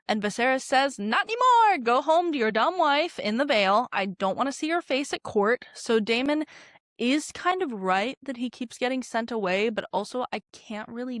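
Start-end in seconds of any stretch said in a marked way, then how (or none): 1.0-5.6 loud, high, furious outburst; angry shout. Retold or imitated. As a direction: yell at the brother in sudden fury. Viserys yells at his brother.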